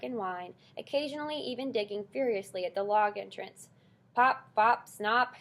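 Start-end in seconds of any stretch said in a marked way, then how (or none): 4.1-5.3 loud impatient call of wrong names; cry out. A narrator's reading. Old porcupine crying out at the mouse, loud. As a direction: shout the names carelessly. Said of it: "Aerith cried".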